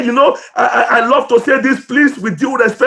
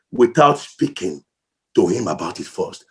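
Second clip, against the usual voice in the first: fading to a hush; 6 dB quieter than usual. Real, not acted.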